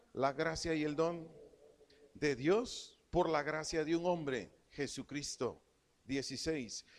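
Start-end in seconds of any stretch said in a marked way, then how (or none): 0.1-5.6 preacher proclaims the verse, leaning on each phrase; scripture reading. Acted. Preacher reads Romans to the church, emphatic scripture reading.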